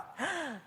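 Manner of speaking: soft sharp intake of breath, quiet; a small gasp of reluctance; imitated little gasp. Toddler about to hand over her Valentine, soft gasp. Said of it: "you could tell she was saying to herself".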